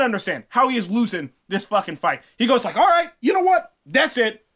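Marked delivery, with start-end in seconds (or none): 2.8-4.4 fed-up Thor. Acted. Thor snaps, wants a fight.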